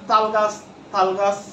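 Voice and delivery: তাল গাছ said slowly, twice, sound by sound; slow pronunciation demo. Shown as a demonstration. Teacher to class, slowly repeating the example of a sound slip. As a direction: spell out তাল গাছ deliberately, twice over. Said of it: "শব্দগত উচ্চারণ বলতে এই যে বললাম ট, ত".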